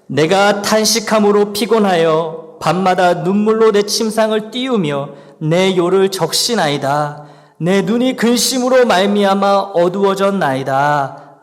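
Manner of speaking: slow unison recitation of the psalm; the congregation reading the psalm aloud, solemn; solemn scripture reading. Shown as a demonstration. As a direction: read it together, measured and reverent. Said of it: "우리 한 목소리로 같이".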